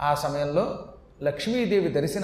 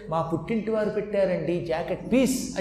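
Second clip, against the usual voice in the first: mock proud wife; 3 dB quieter than usual. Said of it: "mock wife quote".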